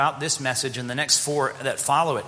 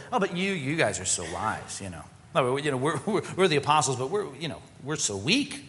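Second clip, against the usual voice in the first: sarcastic. Acted. Preacher voicing Paul mocking proud Corinthians, sarcastic. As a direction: lay the irony on thick. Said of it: "Do you see the sarcasm here?".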